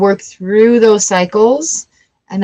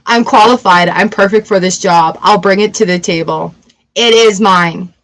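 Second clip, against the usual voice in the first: confident claim; 2 semitones lower than usual. Shown as a demonstration. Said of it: "Do you see the difference there?".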